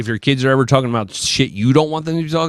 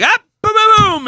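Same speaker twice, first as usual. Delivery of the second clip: high excited burst; 4 dB louder than usual. Retold or imitated. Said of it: "you're like".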